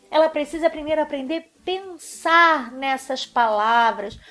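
ordinary talk, nothing marked

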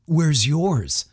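high-pitched challenge; challenging. A narrator's reading. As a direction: throw it out as a dare. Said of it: "Chad challenged".

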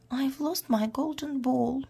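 high-pitched storybook wail; mock sobbing. A narrator's reading. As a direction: act tearful as the princess. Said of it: "she sobbed".

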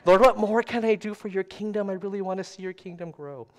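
high, eager replay of a prayer; hammed-up earnest prayer; mock tender plea. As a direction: plead with God, starting loud and high, then easing. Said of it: "in a really tender place when I asked that".

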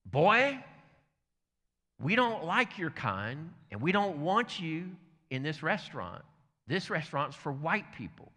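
a hint of a menacing bully; mild acted threat. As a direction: warn him off slowly, lightly acted. Acted Klan leader's threat.

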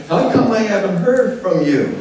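mock reproach. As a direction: play someone put out at being neglected. Imagined reproach Paul did not make.

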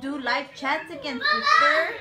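high, lisping, teasing voice; teasing the sleepy sister with a lisp; silly sister voice. Pretend. Baby-talk lisp to sister.

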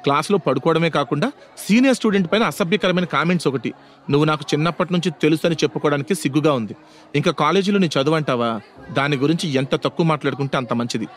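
mildly harsh scolding; understated, scornful telling-off. Acted. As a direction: rebuff him curtly. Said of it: "హార్ష్గా మాట్లాడింది".

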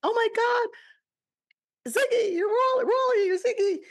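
high tearful gasp of surprise; retold tearful cry. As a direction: relive the moment of tears of recognition. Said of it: "I started crying".

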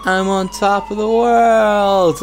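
slow, high triumphant yell; excited shout. Acted. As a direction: shout it from the rooftop.

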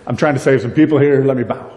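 a hint of a flustered, fawning Mordecai; hurried mock apology, lightly voiced; half-hearted groveling sorry. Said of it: "Mordecai might go".

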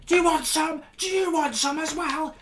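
high, taunting schoolboy voice; hammed-up teen squaring up to a teacher; mock challenge. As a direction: pitch way up and goad like a cornered lad. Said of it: "he starts going".

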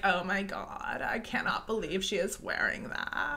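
lazy fried valley talk; Kim Kardashian. Retold or imitated. Coach imitating Kim Kardashian's vocal fry, mildly. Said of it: "that Kim Kardashian, like".

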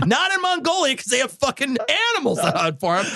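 a bear pushing garbage as food. Retold or imitated. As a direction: play the bear coaxing you to eat. Bear voice continues joking.

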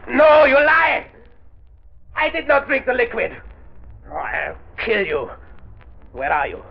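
high, shrill-pitched panicked denial and threats; villain's panicked screaming denial; frantic panic. Acted. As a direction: lose control in terror.

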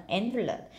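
"envelope" stressed on "en"; first-syllable stress. Shown as a demonstration. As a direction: put the weight on "en" in "envelope". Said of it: "là nhấn âm một".

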